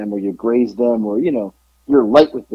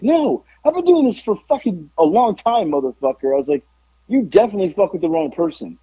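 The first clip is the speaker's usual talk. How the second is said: mildly heated, higher-pitched comeback; retold anger; 5 semitones higher than usual. Veteran to a rookie who thought him green, mildly angry. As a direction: retell putting a rookie in his place. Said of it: "So I'm, like, hot".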